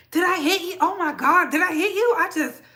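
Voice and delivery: ordinary talk, nothing marked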